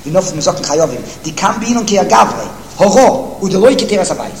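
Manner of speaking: racing through the Hebrew source text; fast singsong yeshiva reading; rapid text reading. Acted. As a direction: rattle off the quote quickly, like a study partner. Reading the Gra quickly.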